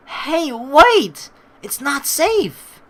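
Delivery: loud, high shout, slow on the end; calling out. Acted. Calling after Marina as she runs, loud shout. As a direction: yell a warning after her.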